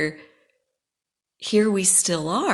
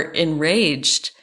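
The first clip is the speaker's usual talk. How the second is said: whispered word; 4 dB louder than usual. Real, not acted. Mocking people angered by her boundaries, in a whisper. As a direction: drop to a teasing whisper on enraged.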